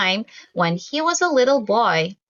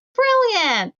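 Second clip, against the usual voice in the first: excited; 10 semitones higher than usual. Acted. Child excited about shadow play.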